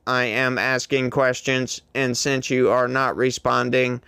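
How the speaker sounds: flat, even robot voice; lightly mocking machine voice. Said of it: "Just like a robot".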